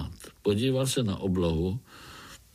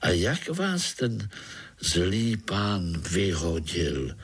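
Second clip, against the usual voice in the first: plain reading voice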